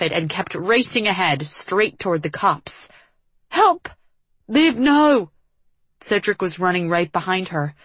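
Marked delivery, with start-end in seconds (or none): 3.5-3.9 high, loud shout for rescue; desperate cry for help. A narrator's reading. Heroine runs to police for help. 4.5-5.3 high, loud warning cry; alarmed shout. A narrator's reading. Cedric shouts to stop her.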